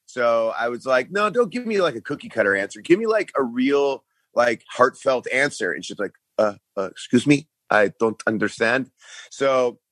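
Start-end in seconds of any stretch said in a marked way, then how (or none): 1.1-5.7 mock Simon Cowell-style judge, much higher; hammed-up mean talent-show judge; imitating a mean talent-show judge, pitched up; harsh judge. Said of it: "that kind of host slash judge". 6.4-8.9 mock French accent, confused; imitating a puzzled French speaker; lightly put-on Montreal French accent. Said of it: "She didn't speak English at all".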